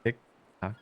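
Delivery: high creepy clock chant; giggly sinister sing-song. Acted. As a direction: sing it like a haunting clown. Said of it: "I had to go with the clown laugh".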